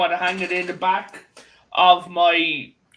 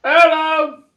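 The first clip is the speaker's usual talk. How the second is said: a light put-on Irish accent, bright hello; 7 semitones higher than usual. Friend greeting family in a light Irish accent. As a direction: greet them in a mild Irish lilt. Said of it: "One with an Irish accent".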